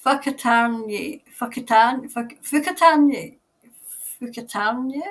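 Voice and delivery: "Fukatarny" sounded out as fuh-kuh-TAHN-yeh; pronunciation tried out. Shown as a demonstration. Host tests a New Zealand place name, trying out the pronunciation of "Fukatarny". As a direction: try "Fukatarny" several ways, stretching the TAHN. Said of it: "It's pronounced".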